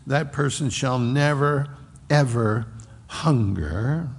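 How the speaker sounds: "never", "ever", "hunger" spaced out; emphatic double negative. Shown as a demonstration. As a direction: weigh "never" and "ever" one by one. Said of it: "it's a double negative".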